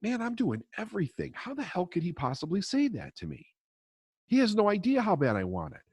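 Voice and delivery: mock outrage at being doubted; indignant inner voice. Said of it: "Because I'm thinking".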